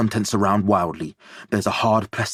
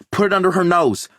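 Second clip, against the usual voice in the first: high, loud firm direction; urgent medic command; directing; 10 semitones higher, 4 dB louder, faster than usual. A narrator's reading. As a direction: give the order, no room for doubt. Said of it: "Linda directs".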